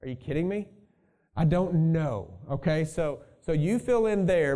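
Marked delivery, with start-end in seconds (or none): 0.0-0.7 mild sarcastic disbelief; tossed-off are-you-kidding-me; a touch of sarcasm, not overplayed. Shown as a demonstration. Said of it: "a really sarcastic".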